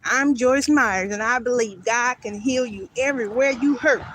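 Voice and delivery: lightly imitated TV preacher intro, slow start; a hint of a televangelist opening her show; Joyce Myers intro. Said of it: "I heard".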